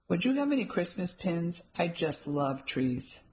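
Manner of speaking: sultry. Acted. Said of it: "asked in a somewhat sultry voice".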